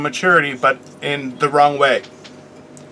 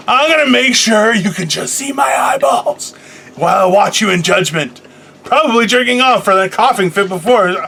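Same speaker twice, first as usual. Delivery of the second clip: imitating co-host; 5 semitones higher than usual. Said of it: "She's like".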